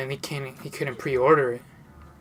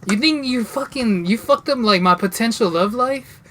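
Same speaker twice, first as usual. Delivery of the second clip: raised-pitch retold outrage; higher, louder, worked-up protest; indignant comeback; 5 semitones higher, 3 dB louder than usual. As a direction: challenge a friend in disbelief.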